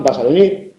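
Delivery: vas a venir as a plain affirmation; statement intonation. Shown as a demonstration. Teacher demonstrating an affirmation, statement tune on vas a venir. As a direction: state vas a venir, pitched below the question. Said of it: "puede ser una afirmación".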